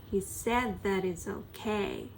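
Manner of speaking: "that" reduced, jaw barely moving; reduced vowels. Shown as a demonstration. Teacher showing reduced vowels in a sentence. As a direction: say it with a lazy jaw. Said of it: "顎を動かさなくても喋れる".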